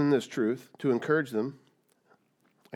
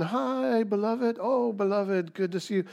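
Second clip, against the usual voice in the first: high, bright mock greeting, much higher; sing-song fake-friendly hello, pitched way up; cheery churchgoer greeting; 8 semitones higher than usual. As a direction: gush like an overly friendly church member. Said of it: "Everyone's running around going".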